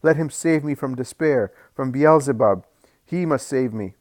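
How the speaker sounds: loud, high, desperate shouting; anguished shouting. Acted. Maimed mother shouts her grief at Jesus, loud and high. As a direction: cry out in grief and rage.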